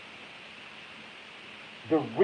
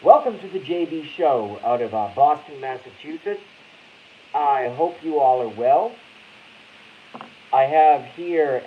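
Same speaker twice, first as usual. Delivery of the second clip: a hint of Blackie's show opener; imitating Blackie; 5 dB louder than usual. Host opens the show in a mock-Blackie welcome. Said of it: "that's my Blackie impersonation".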